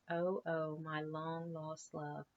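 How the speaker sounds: slow, hammed-up lovesick sigh to a lettuce; drawn-out mock romance; a touch of melodrama to a lettuce head; mock swoon. Mammers swooning over lettuce.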